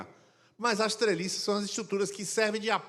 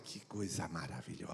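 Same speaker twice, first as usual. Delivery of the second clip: put-on much lower and much softer cooing, as if to a baby; hushed, lowered mock-adoring baby voice; baby-talk voice; 11 semitones lower, 13 dB quieter than usual. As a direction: coo it like talking to an infant. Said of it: "Abaixa o tom de voz assim, fala com o tom de que tá falando com o bebê".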